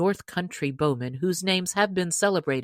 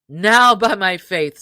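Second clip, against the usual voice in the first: hearty Robin Hood; 3 semitones higher, 10 dB louder than usual. Acted. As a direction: boom out an invitation like a jolly chief. Robin's loud oath.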